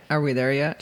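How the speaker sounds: put-on low-pitched quote of a child; low kid impression; mock child's question. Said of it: "She doesn't sound like that at all".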